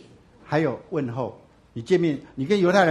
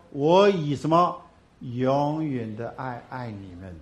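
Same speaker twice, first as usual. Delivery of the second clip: slow solemn quote; much slower than usual. Acted. Quoting God through Jeremiah.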